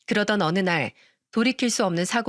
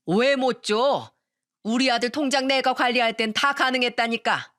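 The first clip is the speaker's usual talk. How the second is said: mock yelling mother-in-law; 3 semitones higher than usual. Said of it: "소리를 질렀어요".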